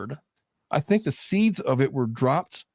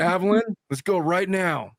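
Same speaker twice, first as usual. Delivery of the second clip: mild parental command, slightly higher pitch; lightweight yelling; 5 semitones higher than usual. Retold or imitated. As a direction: tell a child firmly, without really yelling. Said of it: "I was lightweight yelling at Evelyn".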